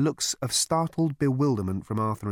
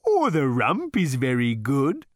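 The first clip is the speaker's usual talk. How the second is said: slow, higher cow voice, hint of a murmur; 4 semitones higher, 5 dB louder, slower than usual. A narrator's reading. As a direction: coax gently like a cow selling itself. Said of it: "murmured the animal".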